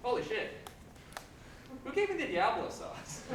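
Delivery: high, loud, outraged outburst; hammed-up spicy-food panic; mock alarmed yell. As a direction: yell as if mouth's on fire. Reenacts overreacting to mild sauce.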